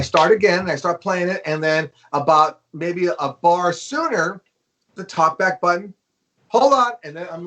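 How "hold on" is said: higher, firm retold interruption; imitated producer stopping a take; producer cutting in. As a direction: cut in over the talkback, pitched up. Producer cuts in over talkback.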